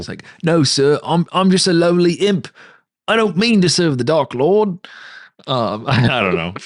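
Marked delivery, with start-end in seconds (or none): 0.4-4.8 lowly imp. Acted.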